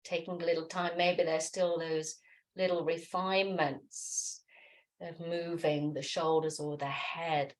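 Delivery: gentle, unhurried meditation voice; guided meditation. Acted. Yoga teacher settling listeners into noticing the body, guided meditation. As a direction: ease them into stillness, leaving long pauses.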